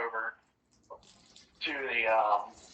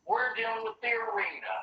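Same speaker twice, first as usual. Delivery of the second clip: a lightly voiced eager goblin barker, a bit higher; goblin announcer; 4 semitones higher than usual. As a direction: hype the fight like a small-time goblin ringmaster. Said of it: "And the goblin says".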